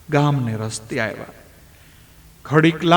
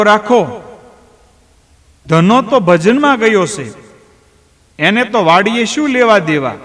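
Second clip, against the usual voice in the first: lightly voiced old farmer, a touch raised and insistent; Rambhai defending; 4 semitones higher, 3 dB louder than usual. Rambhai tells the villagers his son is at the bhajan, mildly insistent. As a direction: brush off their worry about his son.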